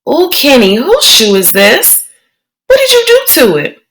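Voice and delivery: put-on a worried young girl questioning her brother; child's voice, rising alarm; little sister Joey. Joey questions Kenny about shoe.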